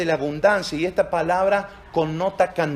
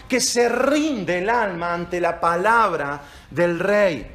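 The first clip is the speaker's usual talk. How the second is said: slow and louder, savouring each phrase; preaching at full force; 4 dB louder than usual. Acted. Pastor praising the word of the King: slow, loud, fervent preaching. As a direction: build it up with relish.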